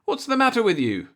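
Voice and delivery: wife baffled by husband, lightly voiced; wife puzzled. A narrator's reading. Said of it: "she said".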